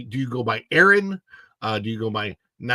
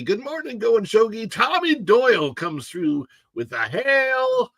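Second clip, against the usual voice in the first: high greeting; 10 semitones higher, 3 dB louder than usual. Real, not acted.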